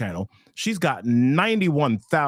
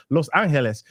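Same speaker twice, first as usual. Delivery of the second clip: Spanish accent. Shown as a demonstration. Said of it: "I'm trying to get my Spanish accent on".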